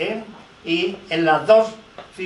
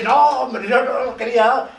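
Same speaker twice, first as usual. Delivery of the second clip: higher-pitched, hasty disclaimer; mock backpedalling; 4 semitones higher than usual. Editor excusing himself to the historian, mock backpedalling. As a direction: imitate someone hurriedly backing down. Retold editor backing down when threatened.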